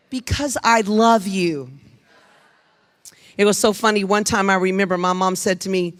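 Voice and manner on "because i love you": tender mom line. Shown as a demonstration. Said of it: "You have to say it after me".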